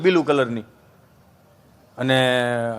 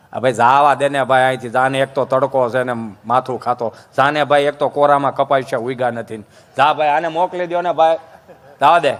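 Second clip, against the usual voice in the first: put-on grumpy old man; 7 semitones lower than usual. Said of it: "દાદાને".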